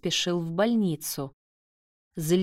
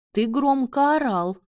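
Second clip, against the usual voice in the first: higher, louder retort; snapping back; 6 semitones higher, 5 dB louder than usual. A narrator's reading. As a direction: snap back in complaint. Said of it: "огрызнулся Марат". (огрызаясь)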